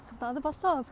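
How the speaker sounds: panting after a long walk; breathless from walking; out of breath. Real, not acted. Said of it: "I'm really out of breath".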